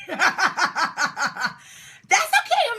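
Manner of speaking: normal talking voice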